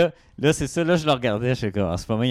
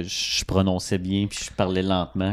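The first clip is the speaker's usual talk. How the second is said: slow, careful speech; 3 semitones lower than usual. Shown as a demonstration. Je parlais lentement.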